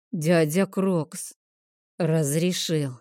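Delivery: put-on slow, laboured child's answer; halting, mildly strained boy; forced out with difficulty. A narrator's reading. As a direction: squeeze the words out, overfull. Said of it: "с трудом выдавил он из себя".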